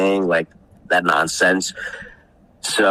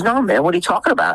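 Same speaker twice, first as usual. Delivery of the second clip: mock clueless; 10 semitones higher, faster than usual. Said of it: "He says".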